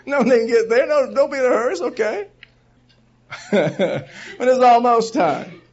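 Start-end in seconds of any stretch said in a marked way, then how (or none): 0.1-2.3 higher, laughing, breezy shrug of a voice; mock casual reassurance. Preacher mocks late churchgoers, breezy and laughing. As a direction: play the unhurried latecomer, half laughing. Mocking latecomers' casual attitude.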